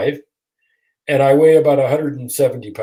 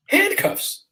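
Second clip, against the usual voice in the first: much higher, rising disbelief; incredulous. Retold or imitated. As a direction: say it as if you can't believe it. Disbelief at handcuffs.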